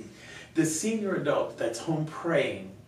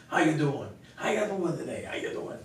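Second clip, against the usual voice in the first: lightly imitated accent, higher-pitched greeting; Dan's accent; 4 semitones higher than usual. Volunteer greeting churchgoers with bulletins, imitated accent. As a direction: greet people in a friend's accent. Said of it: "he had an accent like this".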